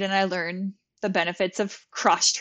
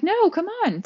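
high, loud coaxing; eager urging; 12 semitones higher, 6 dB louder than usual. Retold or imitated. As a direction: playfully insist. Yoga school urging her.

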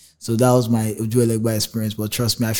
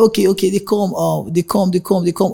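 aunt voice; 8 semitones higher than usual. Retold or imitated. Aunt's eager reply.

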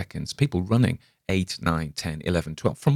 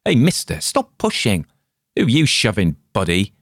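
loud, higher, irritated; rough annoyed bystander; 5 semitones higher, 5 dB louder than usual. Acted. A man in the crowd shoved by Spalner, annoyed and loud. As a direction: snap at the pusher.

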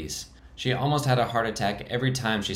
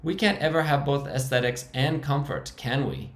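much higher, squeaking; squeaky high voice; 6 semitones higher than usual. Acted. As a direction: defend the hideout in a high squeak. Frankie's held high voice.

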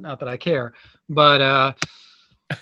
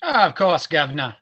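lightly put-on Cockney accent; mock Cockney. Co-host jokingly answering whether he knows the slang, mock Cockney accent. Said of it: "Are you familiar with Cockney rhyming slang?".

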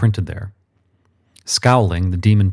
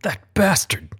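whispered curse; 10 semitones higher, 3 dB quieter than usual. A narrator's reading. Muttered through the stink.

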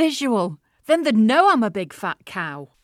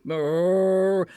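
cow moo; 3 semitones lower than usual. Acted. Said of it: "adding a few moos".

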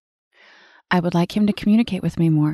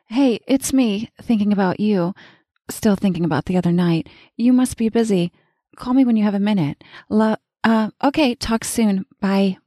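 hopeful voicemail; 3 semitones higher than usual. Acted. Woman leaving her lover a hopeful voicemail, higher casual tone. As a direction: sound breezy but eager.

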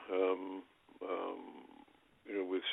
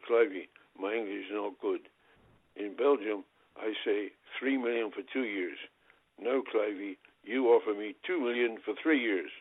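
a hint of Pele's accented English, sly; lightly imitating Pele. Pele teasing the agent over the contract, light imitation. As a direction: play it innocent, leaning on the numbers. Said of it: "he always pronounced the E on the end".

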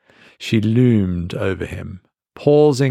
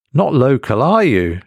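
louder, pointed and knowing; suspicious waitress; 4 semitones higher, 5 dB louder than usual. Acted. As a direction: make it a statement, not a question. It wasn't a question.

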